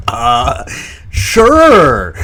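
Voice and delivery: high, loud, drawn-out mock eagerness; hammed-up delighted yes; eager acceptance. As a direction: act out jumping at an offer. Retold eager acceptance of offer.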